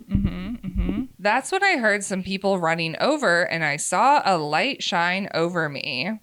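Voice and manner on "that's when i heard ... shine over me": measured, expressive first-person storytelling; story narration. A narrator's reading. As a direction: read a confessional story aloud with lively emphasis. Resumes reading the story.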